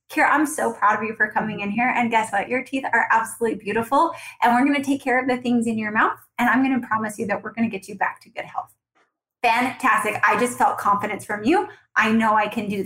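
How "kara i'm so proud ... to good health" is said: reassuring. Shown as a demonstration. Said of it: "put them at ease".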